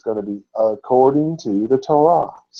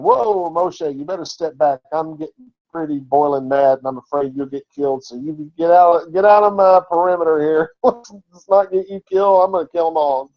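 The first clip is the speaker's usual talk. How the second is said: high, half-laughing voice of an angry God; God's voice; 3 semitones higher than usual. Retold or imitated. God warning Moshe to step back, hammed-up mock rage. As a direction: play God warning Moses in mock fury. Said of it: "But God says to him".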